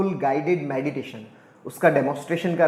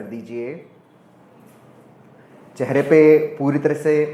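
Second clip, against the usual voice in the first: guided meditation. Shown as a demonstration. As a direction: stretch the key words, leaving pauses to settle. Guides viewers into sitting and breathing.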